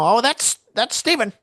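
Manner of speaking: high, lightly voiced fond sitcom sigh; a hint of a proud fifties parent. Narrator watching friend ride off, mild sitcom-parent voice. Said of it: "like a crazy Leave It to Beaver".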